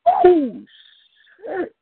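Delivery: high, loud burst of amazement; amazed exclamation. Real, not acted. Host reacting to the poem, loud amazed high exclamation. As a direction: blurt it out, blown away.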